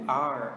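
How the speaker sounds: R said as "ar", like Portuguese for air; English letter R. Shown as a demonstration. Teacher linking the letter to breathing air, R as "ar". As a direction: say R as a drawn-out "ar". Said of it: "Eu respiro sempre o quê?".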